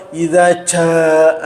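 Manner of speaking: "ja" with an aspirated puff of breath, very slow; Javanese-coloured ja. Shown as a demonstration. Teacher imitates the Javanese dialect on "ja". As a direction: breathe out hard on the "ja" of "idza ja-". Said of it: "kalau itu dialek-dialek Jawa".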